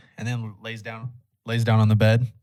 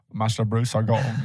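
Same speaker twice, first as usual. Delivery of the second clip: lightly voiced impression of an elderly British butler; a hint of a film-star impression; Michael Caine; 3 semitones lower than usual. Podcaster quoting the butler to friends, lightly imitated. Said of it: "you just hear Michael Caine like".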